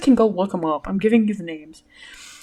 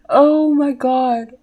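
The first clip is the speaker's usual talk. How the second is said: slow drawl; 4 semitones higher, 5 dB louder, much slower than usual. Real, not acted.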